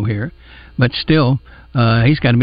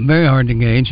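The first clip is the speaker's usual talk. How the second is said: hoarse, scratchy speaking voice; talking through a sore throat; raspy voice. Real, not acted. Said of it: "I'm sorry about my raspy voice today".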